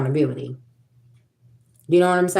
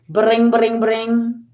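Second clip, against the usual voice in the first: high, sing-song "Bring, bring, bring" like a ringing phone; phone ring imitation; 6 semitones higher, much slower than usual. Jailed man calling out, voicing the phone ring. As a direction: mimic a phone ringing unanswered.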